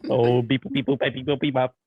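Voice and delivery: silly clown. Pretend. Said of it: "we got Mister Krabs over here".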